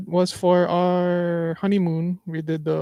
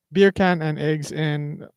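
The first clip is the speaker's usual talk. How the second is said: beer can and eggs in, drawn out slowly; slower than usual. Shown as a demonstration. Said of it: "What is the words you supposed to say?".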